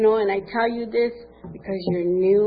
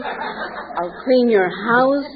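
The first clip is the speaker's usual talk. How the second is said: begging through laughter; begging the newcomer to let her sponsor, laughing; laughing plea; 2 semitones higher, slower than usual. Retold or imitated. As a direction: laugh while promising anything.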